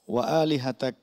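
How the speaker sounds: "আলিহাতাক" ending on an aspirated K; teacher's whispered-release K in "আলিহাতাক"; hams on final K. Shown as a demonstration. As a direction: release a puff of air on the K of "আলিহাতাক". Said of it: "এই হামসটি হয়নি".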